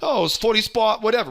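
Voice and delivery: high, loud mock Australian newsreader; a light imitation of an Australian accent. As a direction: toss it off like a breezy Australian lady on the squawk. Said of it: "Some Australian lady says".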